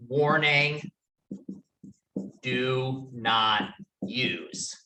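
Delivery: slow, spaced-out label reading; ominous warning. Retold or imitated. Lecturer reads the panel's top label to the class, slow ominous warning. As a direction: read it word by word, with long pauses.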